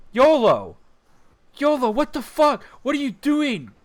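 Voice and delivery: high, loud alarmed shout; shocked yell. Retold or imitated. Waking to him pissing, shouting.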